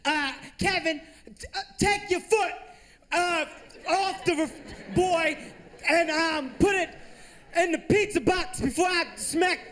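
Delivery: hammed-up mom about to pass out, shouting; garbled angry mom. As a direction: yell at Kevin as the words stop making sense. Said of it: "sentences would stop making sense".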